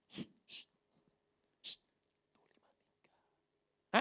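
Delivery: slow unvoiced whisper; passing a secret code to Thomas. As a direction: whisper it slowly, syllable by syllable.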